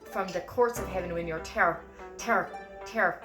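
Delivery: "there" as a short, hard "tare"; staccato T in "there". Shown as a demonstration. Teacher drilling the lyric, staccato T in "there". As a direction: pop the T starting "there". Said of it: "have the staccato to it".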